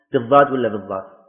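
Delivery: بالضاد ولا بالضاد said twice, first with ض then with ظ; contrasting dad and za. Shown as a demonstration. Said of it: "بالضاد المشالة أو بالضاء أخت الصاد". (نطق بالضاد مرة ضادًا ومرة ظاءً)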